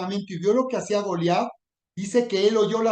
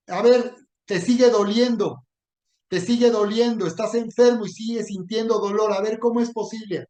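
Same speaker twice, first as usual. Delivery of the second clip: sneering challenge, pitched up and pushed louder; taunting Goliath; 2 semitones higher, 3 dB louder than usual. Pretend. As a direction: jeer at the sick listener like a bully. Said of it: "Que te está diciendo".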